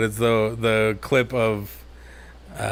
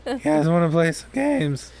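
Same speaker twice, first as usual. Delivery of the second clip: put-on higher-pitched awkward teen invitation; squeaky puberty voice; 5 semitones higher than usual. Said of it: "squeaky puberty voice".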